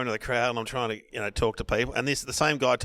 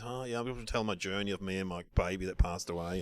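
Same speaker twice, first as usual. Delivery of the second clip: soft, low imitation of a grieving mother; quietly solemn quote; gentle bereaved speaker; 4 semitones lower, 9 dB quieter than usual. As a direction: drop to a hushed, tender register. Voicing bereaved mother's gentle speech.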